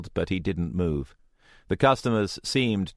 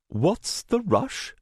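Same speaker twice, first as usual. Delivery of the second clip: slow, higher mocking male voice; sneering rival voice; 14 semitones higher, slower than usual. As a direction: drawl it out with a smirk. Rival character speaks.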